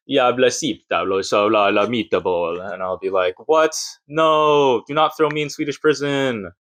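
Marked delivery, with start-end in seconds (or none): 0.1-2.6 gibberish imitation of Swedish police; hammed-up fake Swedish officer; mock Swedish. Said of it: "because I'm a foreigner, they'll be like". 3.5-6.5 higher-pitched pleading, hammed up; mock panicked protest. Acted protest to Swedish police.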